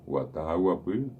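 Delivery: "Guatá, guapí" with an ordinary hard g, said slowly; plain Spanish g. Shown as a demonstration. Teacher showing the normal g in "Guatá, guapí". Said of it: "la misma G que todos conocemos".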